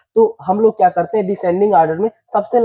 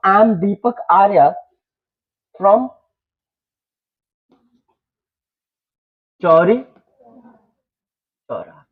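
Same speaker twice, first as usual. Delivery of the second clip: slow dictation pace; slower than usual. Shown as a demonstration. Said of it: "थोड़ी सी मैं speed अपना कम रखा हूँ".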